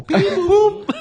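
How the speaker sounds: high squeaky robot beep. Retold or imitated. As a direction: chirp the boop like a toy robot. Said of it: "the Puerto Rican robot".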